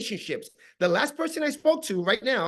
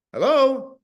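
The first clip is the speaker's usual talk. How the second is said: higher, louder phone hello; acted phone pickup; 3 semitones higher, 6 dB louder than usual. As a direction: answer the phone as the person called. Acting out phone call answer.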